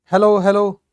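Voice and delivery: loud hello into a dead line; calling hello. Real, not acted. Teacher to silent online class, calling hello loudly. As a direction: call out to check if anyone hears. Checking if the mic works.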